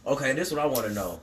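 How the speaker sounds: muffled behind a hand; talking through a hand over the mouth. Real, not acted. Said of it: "take your hand away from your mouth".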